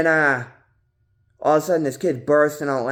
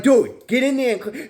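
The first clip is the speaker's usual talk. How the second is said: high, loud ordering; high squeaky retold order; high bossy demand; 13 semitones higher, 5 dB louder than usual. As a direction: order him to clean it in a squeaky voice. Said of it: "I'm like".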